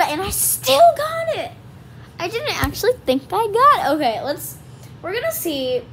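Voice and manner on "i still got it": high, slow little alien voice; croaky Baby Yoda voice. Pretend. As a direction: squeak it out like a tiny old alien. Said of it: "I heard Baby Yoda".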